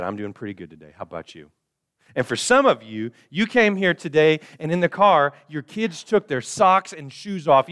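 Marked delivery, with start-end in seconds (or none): 0.0-1.5 a mock-cheery reply gone soft and flat-out hollow; forced fine. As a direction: say you're fine while hiding the fight. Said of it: "And you said".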